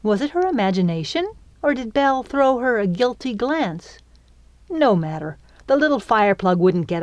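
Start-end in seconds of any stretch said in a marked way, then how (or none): none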